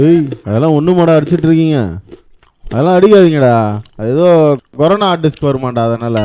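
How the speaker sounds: loud scolding shout. Acted. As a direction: yell at the boys to stop. Scolding the boys.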